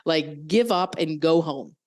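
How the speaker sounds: a lightly voiced mean grown-up; mock ridicule. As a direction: play the cruel adult belittling her. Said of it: "ridicule her".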